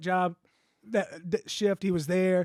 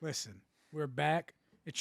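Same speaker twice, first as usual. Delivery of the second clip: whisper; 2 semitones lower, 8 dB quieter than usual. Acted. Whispered show intro.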